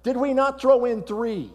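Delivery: high, loud astonished king; king calling out. Acted. King calling the chief guard, high and astonished. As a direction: call out like a startled king. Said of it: "he looks into the furnace and he says".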